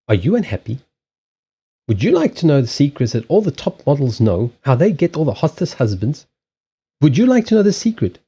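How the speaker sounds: a lightly voiced teasing advert pitch; mock advert pitch. Parody ad host asks viewers the questions, mock salesy. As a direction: coax like a cheesy ad selling secrets. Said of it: "this is how advertising works".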